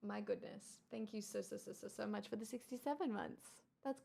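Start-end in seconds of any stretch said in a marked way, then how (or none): 0.1-2.3 whispered in awe at the gift; hushed gasp of disbelief; breathy whisper. Real, not acted. Streamer whispering thanks to a loyal subscriber, awed. Reacting to a long sub.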